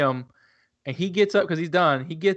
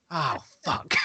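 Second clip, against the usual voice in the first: laughing curse; 13 semitones higher, 3 dB louder than usual. Retold or imitated. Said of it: "I was like".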